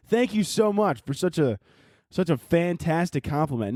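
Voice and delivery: slow, overdone thanks; sarcastic gratitude. Acted. Answering an insulting fan message, sarcastically grateful. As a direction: gush slowly with mock appreciation.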